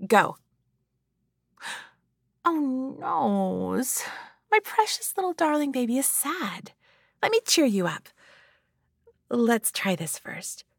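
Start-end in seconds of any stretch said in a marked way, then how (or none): 2.4-8.1 put-on cooing baby talk. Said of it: "act the part".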